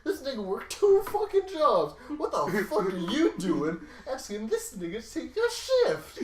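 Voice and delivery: very loud, high furious yelling; furious manager yell. Retold or imitated. Manager Noah yelling at the coworker for asking Taylor, furious loud yell. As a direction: bellow it at the coworker, outraged. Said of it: "And Noah would be like".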